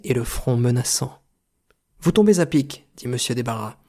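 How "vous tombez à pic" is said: slightly excited, higher director's voice; exclaimed welcome. A narrator's reading. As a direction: greet a timely visitor eagerly. (accueil enjoué, voix plus haute)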